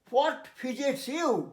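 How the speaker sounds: very slow English example sentence. Shown as a demonstration. Teacher giving students an example sentence, very slow. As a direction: lay out each word slowly. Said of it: "example sentence for fidget".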